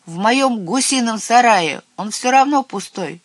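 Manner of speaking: loud, high, eager cry; calling out. A narrator's reading. Herb witch offering her goose shed, calling out. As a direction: pipe up loudly with an offer. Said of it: "крикнула травяная ведьма".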